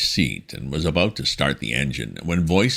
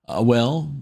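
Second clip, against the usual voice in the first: high, slow, fumbling toff; flustered young gentleman; 9 semitones higher, 4 dB louder than usual. A narrator's reading. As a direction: stammer like a rattled young gent. Wooster voiced in story.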